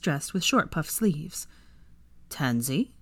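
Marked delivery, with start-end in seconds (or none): 2.3-2.9 low, questioning disbelief; mild shock, understated. A narrator's reading. Draco seeing the elf dressed up, shocked. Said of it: "Draco asked in shock".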